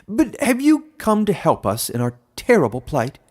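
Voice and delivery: a tiny animal begging for help; pleading hedgehog. A narrator's reading. Hedgehog begging the human for help, high and pleading. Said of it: "it said haltingly".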